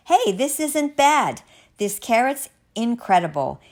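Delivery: high, loud, amazed exclamation; delighted discovery. Acted. Finn tasting a carrot he dreaded, delighted surprise.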